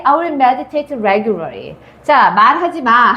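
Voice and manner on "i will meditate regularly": very slow, rising read-out; slow dictation read with a rise at the end. Shown as a demonstration. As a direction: read the example sentence slowly. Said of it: "Don't say".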